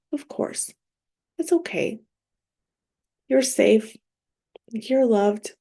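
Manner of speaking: loving. Shown as a demonstration. Woman soothing herself out of a grief spiral, lovingly. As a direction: gently comfort yourself, with pauses between phrases. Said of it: "I like to just lovingly be like".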